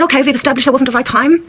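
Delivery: put-on back to German accent. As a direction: return to a comic German accent. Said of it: "Why have you gone back to German?".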